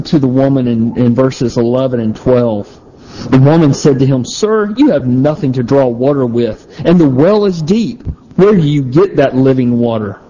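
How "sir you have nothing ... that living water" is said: mildly sarcastic challenge. Acted. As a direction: read it with a touch of sarcasm. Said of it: "if you can hear the sarcasm".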